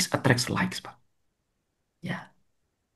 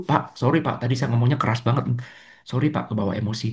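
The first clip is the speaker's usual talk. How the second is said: quiet apology; 7 semitones lower, 7 dB quieter, faster than usual. Retold or imitated. Apologizing after scolding a student.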